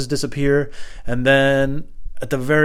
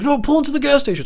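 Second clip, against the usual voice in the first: very high, loud imitation; put-on stranger's voice; 5 dB louder than usual. Stranger directing him off the road, high loud mimicking voice. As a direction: call it out as the insistent driver, pitched up. Stranger calling over at green light.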